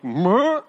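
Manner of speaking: short mock straining "mer"; a quick imitated grunt of reaching out; little catching noise; effort noise. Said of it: "all I gotta do is go like".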